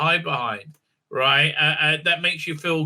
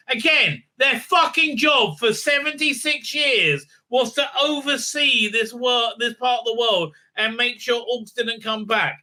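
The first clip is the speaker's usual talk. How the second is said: exasperated rant; 6 semitones higher than usual. Real, not acted. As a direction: rant in a raised pitch, hammering the point. Exasperated rant about the characters' job.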